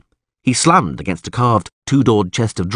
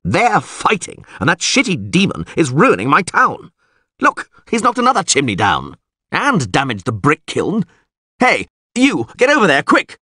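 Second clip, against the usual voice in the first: high-pitched, worked-up official; agitated town official; 7 semitones higher than usual. A narrator's reading. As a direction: fret over the damage, then call out orders. Neville raging and giving orders.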